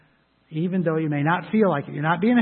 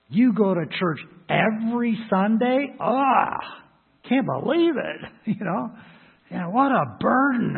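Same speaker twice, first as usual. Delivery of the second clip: higher, mock disbelief at churchgoing; scoffing worldly voice; 4 semitones higher than usual. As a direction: sneer like the unimpressed world. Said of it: "that's the view of the world".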